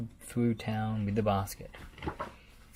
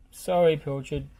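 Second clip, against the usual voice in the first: nervous gulp; 6 semitones higher, 8 dB louder than usual. Acted. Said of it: "gulped Lofty".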